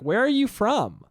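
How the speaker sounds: imitated nosy stranger, slow and pointed; prying question. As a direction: press them slowly, pitch swooping up. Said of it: "person will still be like".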